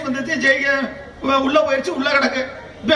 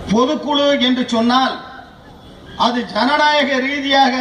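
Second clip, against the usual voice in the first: thunderous political oratory. Acted. Political speech building to applause lines.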